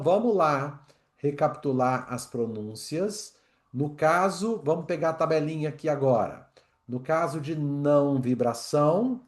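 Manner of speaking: normal talking voice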